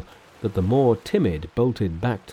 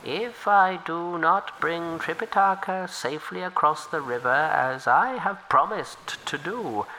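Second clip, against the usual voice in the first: humble river turtle offering help; 6 semitones higher than usual. Acted. Turtle swears.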